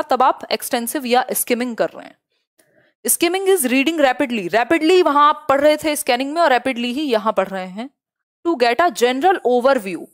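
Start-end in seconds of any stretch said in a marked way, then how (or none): 3.1-5.0 slow dictation. Shown as a demonstration. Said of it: "teacher reads definition slowly". 8.5-10.1 slow dictation. Shown as a demonstration. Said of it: "teacher reads definition slowly".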